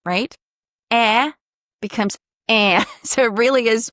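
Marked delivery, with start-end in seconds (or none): 0.9-2.8 eh flattened toward a nasal a. Shown as a demonstration. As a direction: squash the ah before the N. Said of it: "a kind of a flattened ah".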